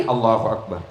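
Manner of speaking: low, soft, odd Allahu Akbar; hammed-up strange takbir; mock takbir. Shown as a demonstration. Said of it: "Bahkan ada yang begini". (takbir aneh diejek)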